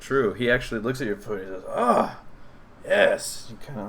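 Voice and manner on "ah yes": higher, drawn-out goblin approval; admiring goblin. Acted. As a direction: savour it like a goblin.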